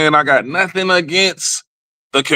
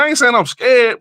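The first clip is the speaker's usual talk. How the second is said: ordinary talk, nothing marked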